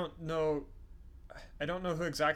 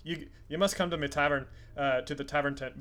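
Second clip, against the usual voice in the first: lightly voiced Scotch-Irish dwarf; Scotch-Irish accent. Dwarf inviting old friend to his tavern, light Scotch-Irish accent. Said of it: "my terrible Scotch-Irish accent".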